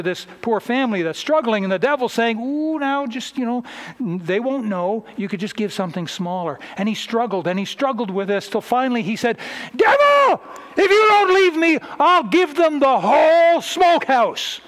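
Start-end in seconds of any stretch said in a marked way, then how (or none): 2.4-6.6 cooing devil. Retold or imitated. Devil tempting the farmer. 9.7-14.6 much higher, loud shout of defiance; defiant shout. Acted. Farmer rebuking the devil.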